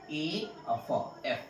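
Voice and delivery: soft sounding out of एफ; sounding out letters. Shown as a demonstration. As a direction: break एफ into ए and फ, softly. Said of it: "इसका उच्चारण करेंगे".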